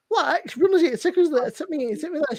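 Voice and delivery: high, nagging orders; mock demanding. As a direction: reel off the demands like a pest. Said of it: "it's just like".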